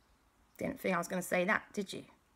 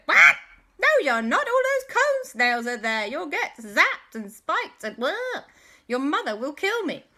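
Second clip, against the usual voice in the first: high, loud, fussing auntie; alarmed auntie; 10 semitones higher, 9 dB louder than usual. Acted. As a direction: scold the children in a panic.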